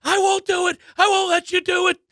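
high, shouted refusal; a man finally standing his ground; defiant shout. Retold or imitated. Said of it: "stands up and goes".

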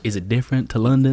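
put-on Southern American accent; mock Southern American accent. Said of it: "I think my accent's getting better".

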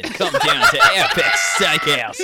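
ad voiceover. Pretend. Mock TV ad voiceover.

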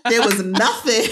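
put-on high, loud teasing child voice; kid's gotcha. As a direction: play the kid catching mom out in her own words. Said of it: "Kaya will sometimes be like".

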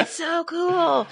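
slow, high, gushing "so cool"; excited gush. Retold or imitated. Repeating her gush about blood to listeners. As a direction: gush with wide-eyed delight. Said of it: "And I'm like".

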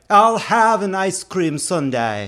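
imitating the actor, a touch of pride and novelty, slow; proud novel order. Ordering dessert at dinner, mock proud and novel. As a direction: savour each word like a rare treat. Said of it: "he said it with a kind of pride and novelty".

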